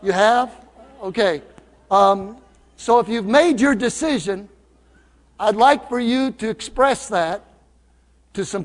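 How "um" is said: ordinary delivery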